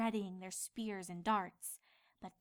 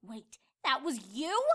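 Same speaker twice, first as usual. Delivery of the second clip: indignant, louder question; glaring; 3 semitones higher, 6 dB louder than usual. Acted. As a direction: accuse him with a glare. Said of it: "she glared".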